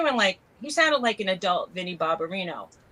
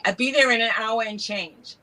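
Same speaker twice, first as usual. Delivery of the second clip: imitating local New York talk; lightly put-on New York accent; 2 semitones higher than usual. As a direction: quote it like a New Yorker. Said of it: "this is what they'd say".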